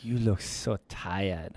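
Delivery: slow, low, hushed put-on Asian accent; soft, deep mock Asian accent. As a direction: draw it out softly in an imitated Asian accent. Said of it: "giving her an Asian accent".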